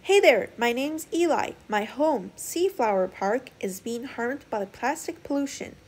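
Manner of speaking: high, loud eager plea for help; begging. Acted. Eli begging the sailors to save his park, pleading. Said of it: "Eli begged".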